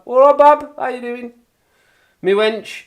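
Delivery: very high, loud broad Black Country greeting. Shown as a demonstration. Showing chat broad Black Country slang, loud broad accent. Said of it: "it's very broad".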